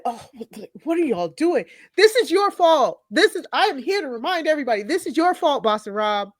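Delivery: mock indignant blaming; imitating Boston Rob. Imitating Rob scolding the other players, a touch of outrage. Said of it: "Rob sitting there like".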